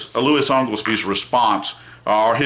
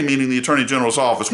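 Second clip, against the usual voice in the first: indignant lawyer; 6 semitones higher than usual. Retold or imitated. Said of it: "I am angry".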